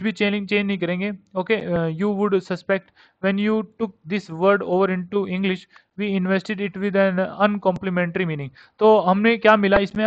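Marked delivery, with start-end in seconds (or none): 1.9-8.5 reads the English text word by word, very slowly; slow dictation reading. Acted.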